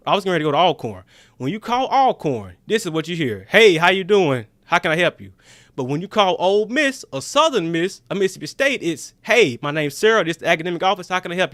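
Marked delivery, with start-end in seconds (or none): 3.5-5.3 loud, unfriendly phone greeting; mock rude receptionist. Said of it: "rude and disrespectful". 9.2-11.5 courteous office phone greeting; mock polite receptionist. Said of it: "You're not on equal footing".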